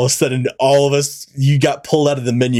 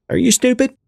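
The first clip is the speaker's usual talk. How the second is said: condescending voice. Acted. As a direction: talk down, pitched high. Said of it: "I'm asking in this condescending voice".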